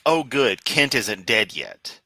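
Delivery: relieved "Oh, good", then settling slowly; compassionate relief. Acted. Host voicing his weird human compassion for Kent, relieved. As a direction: let mild relief ease out on a slow finish. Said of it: "weird bit of human compassion".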